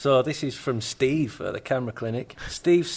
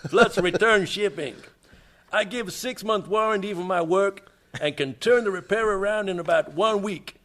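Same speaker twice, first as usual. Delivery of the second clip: put-on New York accent; 4 semitones higher than usual. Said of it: "You sound like a Russian by way of New York".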